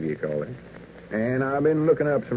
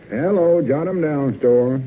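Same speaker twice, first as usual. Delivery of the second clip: loud phone greeting; 5 semitones higher, 4 dB louder than usual. Acted. Answering the telephone.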